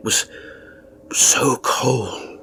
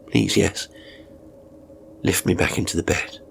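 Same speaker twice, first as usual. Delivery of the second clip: gentle, softer plea; softened tone; 2 semitones lower, 4 dB quieter than usual. Acted. Old man softly asking his carer to lift him into bed. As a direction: ease off and ask kindly. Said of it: "softening my tone".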